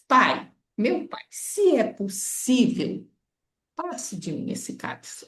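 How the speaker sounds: slow, pleading prayer, fading to a breath; humble plea. Shown as a demonstration. Teacher voices Jesus's humble prayer, slow and pleading. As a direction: let the plea sink to nothing at the end. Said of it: "Olha a diferença".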